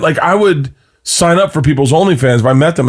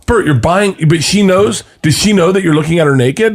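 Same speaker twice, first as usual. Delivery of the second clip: lightly voiced wife, higher pitched; imitating wife; 4 semitones higher than usual. Wife confronting husband over OnlyFans, lightly imitated. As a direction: raise the pitch for the wife's questioning. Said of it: "And she's like".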